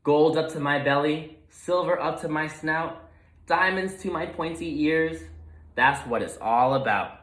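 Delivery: lightly voiced greedy pig, gloating. Gruntley gloats alone over imagined treasure, greedy. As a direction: savour every treasure he dreams of.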